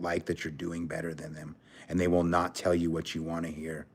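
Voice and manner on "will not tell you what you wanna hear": awed whisper. Real, not acted. Vlogger marvelling at jealous friends, whispered. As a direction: breathe it out in disbelief. Confiding awe, closing thought.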